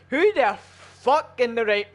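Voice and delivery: exasperated loud opener; outraged outburst. Real, not acted. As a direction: fire the start out in indignation. Outraged rhetorical question.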